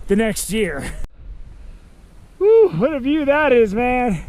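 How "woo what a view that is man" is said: excited exclaim. Real, not acted. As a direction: call out in real awe at the view. Reaching summit with big view.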